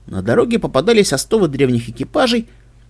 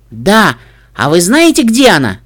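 eager filly; 3 semitones higher, 6 dB louder than usual. Acted. Filly hopes to find mother.

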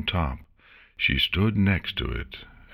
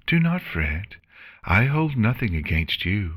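calm voice; 5 semitones higher than usual. Acted. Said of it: "Celestia replied in a calm voice".

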